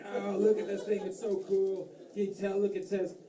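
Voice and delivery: high mock-British gadget fan; British accent. Scuba diver admiring dive computer, mock British excitement. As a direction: gush in a put-on British voice. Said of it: "I don't know why they're British".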